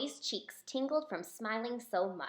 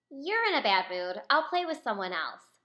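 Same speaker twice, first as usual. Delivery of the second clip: courageously; 5 dB louder than usual. Acted. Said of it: "Chloe said courageously".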